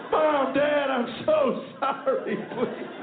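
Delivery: high, slow, hammed-up whimpering plea; fake-cry like a desperate recruit; the son in basic training begs his parents; mock sobbing plea. Mock tearful letter.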